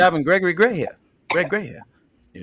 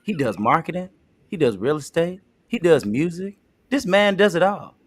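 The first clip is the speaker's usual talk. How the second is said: pumped, upbeat pitch for Greg; hyped-up sales pitch; 3 semitones higher, 4 dB quieter than usual. Acted. Second take selling Greg to Tina, hyped up. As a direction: hype him like a promoter. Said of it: "Make him a little bit more fun".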